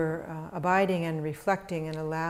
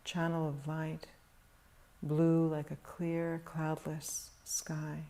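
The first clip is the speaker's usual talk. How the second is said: calm, measured meditation voice with long pauses; guided meditation; 3 dB quieter than usual. Real, not acted. Teacher guiding meditators to settle into stillness, calm meditation delivery. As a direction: guide them gently into stillness, leaving long silences.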